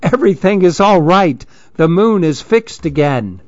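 bright, relieved call; lightly cheerful announcement; happy call. Acted. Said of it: "called out happily".

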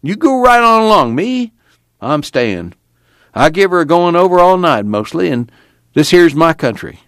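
put-on cantankerous old man, pitched high; high, emphatic old-timer refusal; stubborn Grandpa. A narrator's reading. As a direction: dig in as a defiant old grandpa.

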